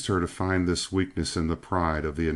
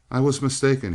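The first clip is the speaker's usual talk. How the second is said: dark; 8 semitones higher, 5 dB louder, faster than usual. A narrator's reading. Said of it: "he said darkly".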